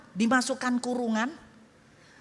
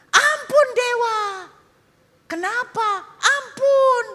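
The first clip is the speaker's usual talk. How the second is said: frightened begging; 12 semitones higher, 6 dB louder, slower than usual. Acted. Tribe begging the "god.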